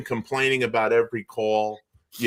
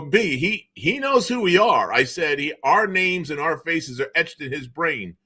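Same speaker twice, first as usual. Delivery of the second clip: amused reassurance; 6 semitones higher than usual. Retold or imitated. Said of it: "I go".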